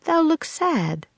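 high, slow, gentle concern; soft sympathy. A narrator's reading. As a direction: sympathize tenderly, drawing it out. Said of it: "Priscilla said softly".

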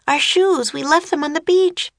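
high, urgent realisation; dismayed. A narrator's reading. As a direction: blurt out the bad news. Annie realises shoes left behind.

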